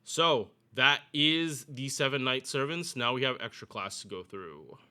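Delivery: winded after talking; slightly breathless, catching air; out of breath. Real, not acted. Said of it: "I gotta catch my breath".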